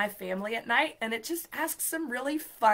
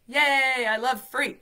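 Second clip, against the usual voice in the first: excited; 3 semitones higher, 8 dB louder, slower than usual. Real, not acted. Cheering about free app.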